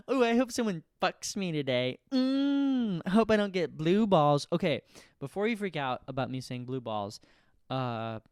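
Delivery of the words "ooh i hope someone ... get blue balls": horny. Retold or imitated. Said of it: "horny at home".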